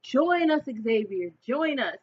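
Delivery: hammed-up cult leader screaming; mock scream. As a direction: shout the invitation triumphantly. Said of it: "he's laughing and he's screaming".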